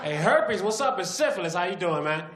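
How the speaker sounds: put-on chummy call to an old pal; a hint of a loud bro; syphilis voice. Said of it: "he called up herpes".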